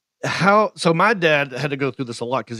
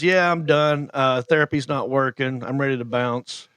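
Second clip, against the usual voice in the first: matter-of-fact. Retold or imitated. Dad after stroke quitting therapy, imitated matter-of-fact. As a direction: deliver it as plain fact, no emotion. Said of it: "wasn't emotional about it ... just matter of fact".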